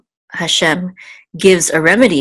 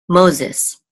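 whisper. Real, not acted. Quiet translation after Hebrew name.

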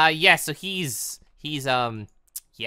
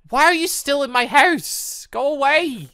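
high exasperated shoo; 10 semitones higher, 3 dB louder than usual. Real, not acted. Player shooing a villager out of his house, exasperated. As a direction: push the villager out, fed up.

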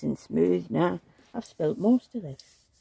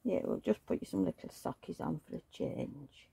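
whisper; 8 dB quieter than usual. Acted. Dressing baby softly.

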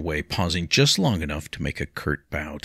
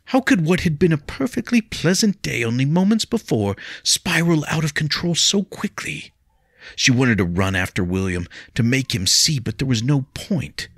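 high, louder anxious plea; pleading young lady; 9 semitones higher, 4 dB louder than usual. Acted. Lady begs William not to fight, high and pleading. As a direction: beg him to stop, voice raised high. Leah's thoughts in her voice.

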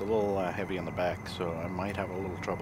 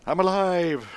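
little Kerbal voice; 10 semitones higher, 6 dB louder, much slower than usual. Pretend. Voicing the landed Kerbal.

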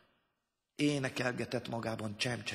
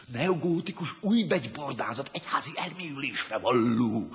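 slightly raised, ringing voice; resounding declamation; 3 semitones higher, 5 dB louder than usual. A narrator's reading. Lofty voice from the committee, resounding declamation. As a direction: intone it resonantly and louder. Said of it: "zengte egy hang".

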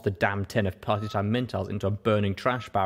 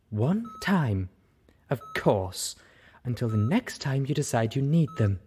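seething; 4 semitones higher than usual. Acted. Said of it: "Velvet seethed".

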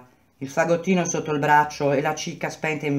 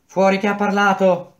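loud, high barked order to speak up; shout; 4 semitones higher, 4 dB louder than usual. Acted. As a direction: call out the culprit, louder and higher. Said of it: "gridò Madì".

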